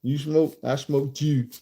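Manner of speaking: imitated Baltimore vowels, a little drawn out; Baltimore accent. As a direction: mimic a Baltimore speaker on "too". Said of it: "That's Baltimore".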